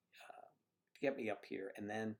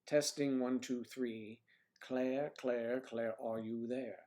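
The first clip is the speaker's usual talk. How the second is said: slow, deliberate mic test count; mic check; slower than usual. Real, not acted. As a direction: count it out slowly like a soundcheck.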